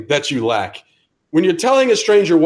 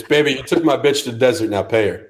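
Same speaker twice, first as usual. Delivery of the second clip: pimp voice; 3 semitones lower than usual. Retold or imitated. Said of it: "fiancés are called pimps".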